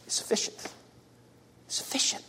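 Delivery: hushed whisper of "sufficient"; awed whispered affirmation. Acted. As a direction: breathe the words out with no voice. Paul's whispered affirmation of grace.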